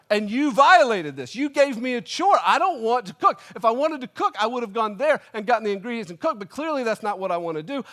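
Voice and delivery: high, loud mock outrage; hammed-up indignant tirade; angry rant. Customer accusing the pizza shop of violating the contract, comic fury. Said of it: "angry old man rant".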